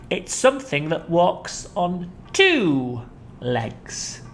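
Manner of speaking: slow, sly crocodile tease; hint darkly. Acted. Crocodile teasing Humpy Rumpy with a riddle.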